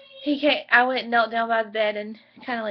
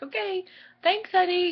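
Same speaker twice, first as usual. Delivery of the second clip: tearful thanks; 7 semitones higher than usual. Retold or imitated. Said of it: "Like, I was just bawling".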